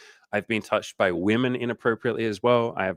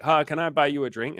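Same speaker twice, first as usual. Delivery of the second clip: eager suitor; 7 semitones higher than usual. Retold or imitated. Acting a man hitting on woman.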